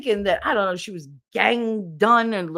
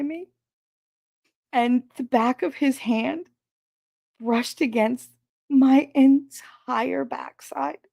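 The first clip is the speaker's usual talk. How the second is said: mock pitiful coworker; 5 semitones higher than usual. Mocking coworker's story.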